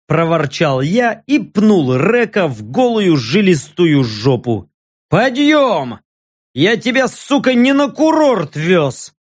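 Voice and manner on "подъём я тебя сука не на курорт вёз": yelling. Acted. Гоблин орёт на лежащего орка.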